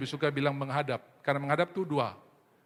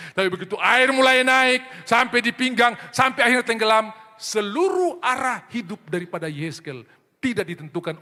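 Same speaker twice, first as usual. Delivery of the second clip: rising preaching climax; 8 semitones higher, 10 dB louder than usual. Real, not acted. Preacher picturing the river rising to drown, loud climactic build. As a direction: swell it like a flood.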